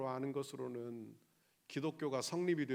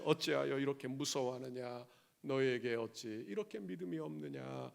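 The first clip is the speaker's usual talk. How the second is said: lower, softer tender question; gentle Jesus; 3 semitones lower, 3 dB quieter than usual. Acted. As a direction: ask it quietly, like a caring Lord to a frightened believer. Jesus speaks to us now. (두려워하는 성도에게 묻는 주님, 낮고 부드럽게)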